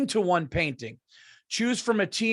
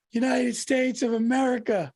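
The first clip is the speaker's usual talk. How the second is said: player answer; 4 semitones higher than usual. Retold or imitated. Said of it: "and he goes".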